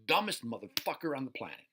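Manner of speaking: loud, high furious scream; screaming at Bob. Shown as a demonstration. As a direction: scream the insults at full rage. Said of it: "scream it with the expression like".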